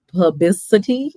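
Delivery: PUBLICITY sounded out carefully, ending on a questioning rise; unsure, careful go at PUBLICITY; careful pronunciation. Real, not acted. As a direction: feel your way through the word PUBLICITY. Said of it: "I have to say it slow".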